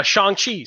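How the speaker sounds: Shang-Chi with a broad "ah"; accurate pronunciation. Real, not acted. Host introduces the topic, Shang-Chi said as "shahng-chee". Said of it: "Do I have to say it like that now?".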